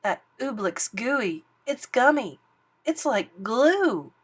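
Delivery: alarmed cry. Acted. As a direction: urge him to look. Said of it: "Bartholomew cried".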